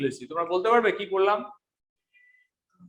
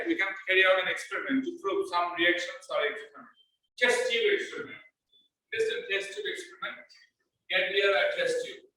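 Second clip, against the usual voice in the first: faint, low volume; 6 dB quieter than usual. Real, not acted. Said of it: "sir, ভয়েসটা খুব লো আসছে".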